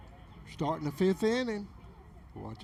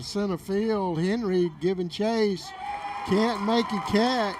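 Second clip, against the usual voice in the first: excited call; 3 semitones higher, 3 dB louder than usual. Real, not acted. Excited fly ball call.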